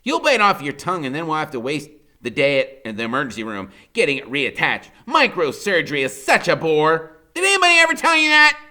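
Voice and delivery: high, loud mocking lecture; lofty Freak. A narrator's reading. Freak lecturing about microsurgery, high loud voice. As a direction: tease him grandly, high. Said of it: "he says".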